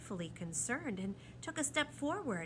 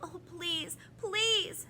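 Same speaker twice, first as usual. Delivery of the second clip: high, sobbing-style plea; begging; 11 semitones higher, 7 dB louder, much slower than usual. A narrator's reading. Lindy clings to the proc, begging. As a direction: beg desperately, swelling on the last word. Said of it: "she begged".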